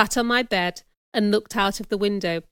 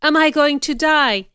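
mildly distressed question, pitch and volume raised; weak; 5 semitones higher, 5 dB louder than usual. A narrator's reading. Wounded Mason asks Rochester if he'll die, weak. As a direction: ask it like a hurt man, lightly acted. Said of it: "he asked weakly".

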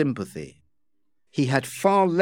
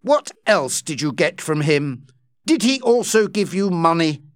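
cold fury; 3 semitones higher than usual. Acted. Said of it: "asked in a cold, angry voice".

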